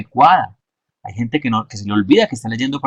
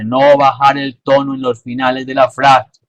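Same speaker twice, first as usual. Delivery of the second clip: "frase" with its last syllable swallowed; dropped final syllable; 3 semitones higher, 4 dB louder than usual. Shown as a demonstration. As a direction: let the "se" of "frase" fade to inaudible. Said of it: "La palabra se no se escuchó porque bajó el tono".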